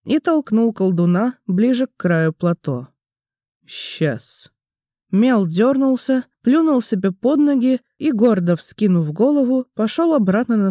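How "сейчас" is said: whisper. A narrator's reading. Cowering wizard, aside.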